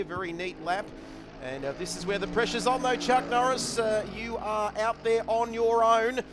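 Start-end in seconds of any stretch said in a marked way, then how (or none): 1.7-6.2 building to a high, loud call; rising, emphatic commentator voice; live race commentary. Real, not acted. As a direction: ramp up the pressure on the driver.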